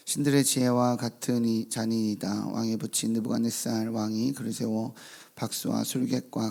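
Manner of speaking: measured, formal Bible reading; scripture reading. Acted. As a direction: read the passage with solemn weight. Reads scripture aloud.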